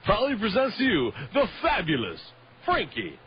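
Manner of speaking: booming ring announcer intro, slowing on the name; grand entrance announcement. Pretend. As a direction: hype up the player's entrance like an arena announcer. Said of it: "I'm gonna steal your name".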